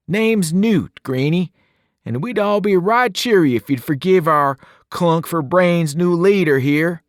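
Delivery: playful Brit cutting in on his friend; thick British accent. Acted. Newt teases Albie about the tour, thick British accent. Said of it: "his voice thick with an odd accent".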